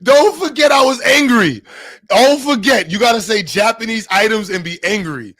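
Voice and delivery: loud, high mock-angry Japanese accent. Streamer explains his impression to listeners, angry Japanese accent. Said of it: "that's the Japanese accent".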